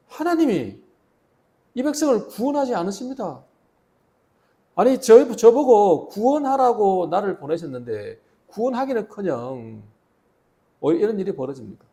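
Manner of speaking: pleading outcry. Acted. Moses crying out to God.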